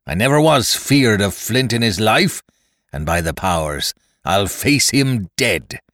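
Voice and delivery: loud, forceful rallying shout; pirate captain shouting down his fear of a ghost; defiant cry. Acted. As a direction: rouse the frightened crew by sheer will. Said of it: "he cried".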